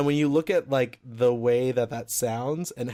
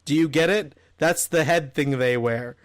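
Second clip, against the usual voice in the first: mock text read; 3 dB louder than usual. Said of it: "I'll read the exact text".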